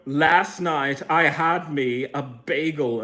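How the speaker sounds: slow, lightly voiced father singing; a hint of father's earnest misheard lyric; imitating father. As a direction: sing it slow like dad did. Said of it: "My father would always say".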